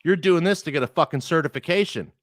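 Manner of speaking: a mild angry rant, retold; retold indignant rant.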